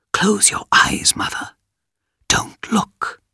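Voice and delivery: hushed, secretive whisper. A narrator's reading. Perseus secretly warns his mother, whispering. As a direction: whisper a warning for her ears only. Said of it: "Then he whispered".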